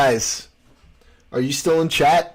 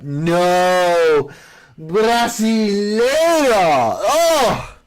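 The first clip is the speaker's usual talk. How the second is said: mock outraged cry; 5 semitones higher, 5 dB louder, much slower than usual. Mock protest at Brazilian jab.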